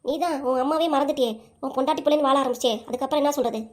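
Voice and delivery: low-pitched, reproachful grandmother; scolding grandmother. Acted. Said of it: "என்ன பாட்டி இப்படி பேசுறீங்க?". (பேரனைக் கண்டிக்கும் பாட்டி)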